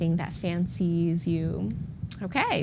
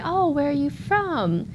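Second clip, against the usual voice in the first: curious local asking; 8 semitones higher, 3 dB louder than usual. Retold or imitated. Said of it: "like if you say".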